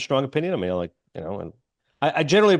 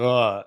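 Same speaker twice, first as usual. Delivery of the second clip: short imitated groan; mock climax groan. Imitating the young man watching her, mock groan. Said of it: "he ends up climaxing".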